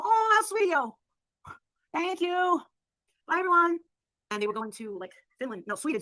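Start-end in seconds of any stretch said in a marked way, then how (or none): 0.0-3.8 high, sing-song put-on sweetness; showy sweet thanks. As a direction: coo it high for the watching girls. Showing off before other girls.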